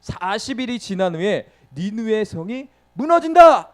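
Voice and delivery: loud prophetic warning, rising high; acted herald's cry, stretched then punched. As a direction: shout the warning to a whole city, building in pitch. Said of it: "이렇게 외쳤다는 거예요".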